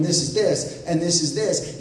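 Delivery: tossing the riddle off with glee; amused quoting. Retold or imitated. Pop Song pointing and saying it.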